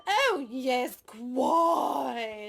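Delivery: put-on clipped old-Hollywood Mid-Atlantic vowels; mock Mid-Atlantic accent. Hamming a Mid-Atlantic accent for the host. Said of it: "what accent am I doing now".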